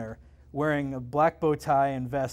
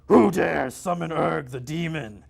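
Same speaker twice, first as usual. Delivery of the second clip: demon voice; 4 dB louder, slower than usual. Acted. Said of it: "it screamed".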